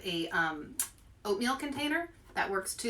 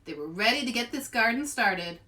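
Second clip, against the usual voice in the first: put-on lively read-aloud voice for kids; story narration. A narrator's reading. Librarian reading a picture book to kids, lively storytelling voice.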